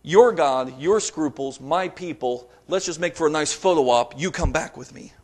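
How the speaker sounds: cynical politician. Pretend. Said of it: "It's like a president".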